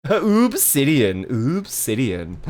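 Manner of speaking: "Obsidian" starting with a long "oob"; exaggerated vowel. Shown as a demonstration. Streamer joking about pronunciation, exaggerated vowel. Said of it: "could be ub or obscure".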